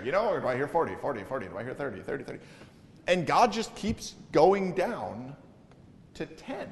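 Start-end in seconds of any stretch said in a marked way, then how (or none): 0.4-2.4 auctioneer. Retold or imitated. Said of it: "it's like an auctioneer".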